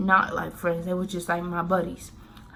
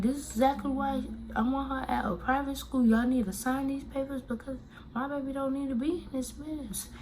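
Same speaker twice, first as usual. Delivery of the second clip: higher mom voice, rushing angrily; mad mom; 7 semitones higher, 4 dB quieter than usual. Retold or imitated. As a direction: play the furious mother. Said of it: "she was really mad".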